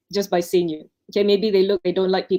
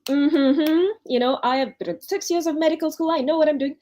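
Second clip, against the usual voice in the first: much higher, indignant put-upon retort; mock offended; 9 semitones higher than usual. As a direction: act out hurt pride, pitched way up. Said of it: "you can choose to be offended and do".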